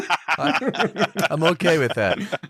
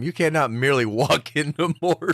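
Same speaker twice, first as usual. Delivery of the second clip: laughing quote. Real, not acted. Laughing while misquoting film line.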